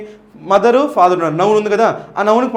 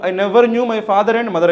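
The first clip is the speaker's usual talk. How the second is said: slow reading; much slower than usual. Shown as a demonstration. Teacher quotes option B.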